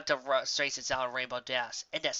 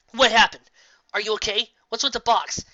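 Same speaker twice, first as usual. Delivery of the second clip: alarmed; 7 semitones higher, 8 dB louder than usual. Acted. Raindrops alarmed by Trixie.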